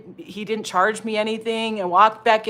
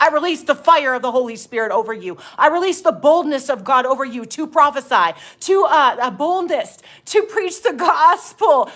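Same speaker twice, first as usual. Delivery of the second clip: prophesying; 4 semitones higher, 4 dB louder than usual. Retold or imitated. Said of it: "so I got done prophesying over".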